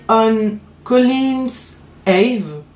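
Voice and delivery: slow English-accented brand name. Real, not acted. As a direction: read the English name slowly in a clumsy English accent. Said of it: "encore une fois". (nom de vernis lu lentement avec un accent anglais hésitant)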